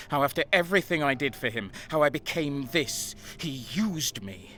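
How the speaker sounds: loud, fast, rising fury; defiant anger. Acted. Betrayed brother shouting his defiance at the zealot. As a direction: spit it out, refusing to bend.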